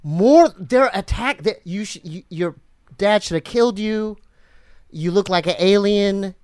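gruff wrestling promo growl. Real, not acted. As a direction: talk like a WWF wrestler cutting a promo. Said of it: "like, W W F wrestling voice right now".

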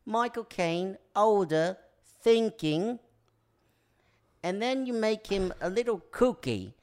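high, helium-pitched impression; botched impression climbing too high; Michael Caine. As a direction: push the impression up into helium range. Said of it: "You just kept taking more helium in".

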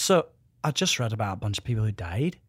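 put-on lilting Irish accent, ending upward. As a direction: deliver sad news in an Irish lilt. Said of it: "Irish accents go up".

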